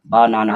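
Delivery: "बनाना" in three separate beats, बा, ना, ना; split into syllables. Shown as a demonstration. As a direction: break "बनाना" into बा-ना-ना for learners. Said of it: "तीन बार में पढ़ते हैं".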